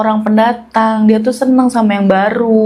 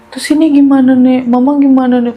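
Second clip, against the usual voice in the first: higher, pressing anxious questions; mildly panicked, voice raised in pitch; retold panic; 5 semitones higher, 3 dB louder than usual. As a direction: act out a worried child pleading with grandmother. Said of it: "Panik tuh, Bang".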